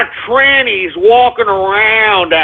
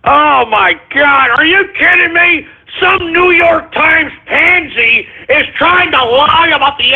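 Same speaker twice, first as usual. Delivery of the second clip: outraged rant; 6 semitones higher than usual. Acted. Host outraged at clip.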